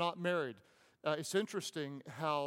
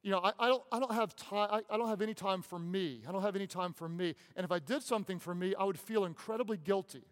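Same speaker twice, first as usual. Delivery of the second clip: higher, quick, harried mom voice; imitating an overwhelmed mom; 3 semitones higher than usual. Pastor mimics a busy mom he counsels, higher and hurried. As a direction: rush it like a frazzled mother. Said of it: "I talk to moms all the time".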